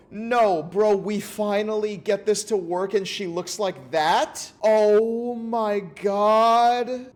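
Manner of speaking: high, loud no no no in disbelief; outraged yelling. Real, not acted. Streamer yelling at the game over her face, outraged. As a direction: shout at the screen in comic outrage.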